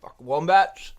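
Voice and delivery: chewing ice while talking; talking through a mouthful of ice; mouth full. Real, not acted. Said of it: "Sorry, I'm chewing ice".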